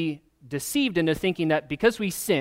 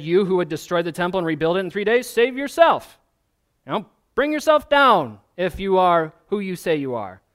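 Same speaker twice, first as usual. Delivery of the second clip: mocking jeer; 2 semitones higher, 4 dB louder than usual. Passersby mocking Jesus on cross.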